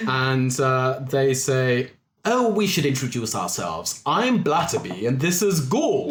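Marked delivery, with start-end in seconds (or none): 2.3-6.1 lightly voiced old man, a bit higher; old explorer. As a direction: introduce yourselves as a quaint old adventurer. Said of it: "two very old men wearing, like, explorers' hats".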